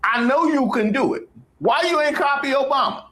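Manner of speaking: very high, squeaky falsetto; high-pitched mock pleading. Comedian asking Melania why she ain't copy Obama, in mock high-pitched pleading.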